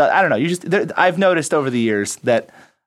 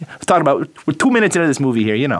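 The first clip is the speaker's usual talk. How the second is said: quick, lightly put-on Brooklyn accent; much faster than usual. Shown as a demonstration. Host showing how he talks with New York friends, slight Brooklyn accent. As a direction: let a little Brooklyn accent slip out, fast. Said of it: "a little bit of the Brooklyn accent comes out".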